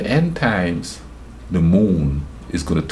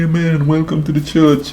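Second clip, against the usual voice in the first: church lady greeting; 10 semitones higher than usual. Retold or imitated. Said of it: "Women are coming up hugging me".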